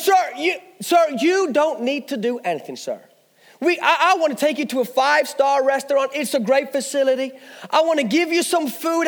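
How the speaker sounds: imitated American sales patter; amateur American accent. Salesman talks up a free day out, in mock American accent. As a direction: pitch it eagerly in a put-on American accent. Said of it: "now forgive my American accent".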